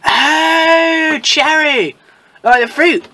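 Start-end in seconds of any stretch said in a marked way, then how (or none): 0.1-2.0 sudden realization. Real, not acted. Realizing the name is a pun.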